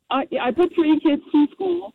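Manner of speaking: muffled, far from the phone. Real, not acted. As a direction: talk away from the receiver. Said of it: "You sound muffled".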